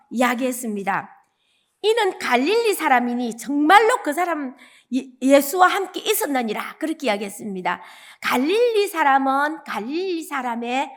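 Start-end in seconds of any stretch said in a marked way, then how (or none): 1.8-6.8 sure accusation. Retold or imitated. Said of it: "완전히 확실하게 장담을 하면서".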